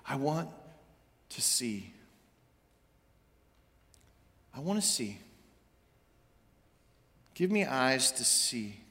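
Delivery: soft, whispered plea, trailing to a whisper; hushed plea. Acted. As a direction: ask quietly, almost breaking. Blind man asks for sight.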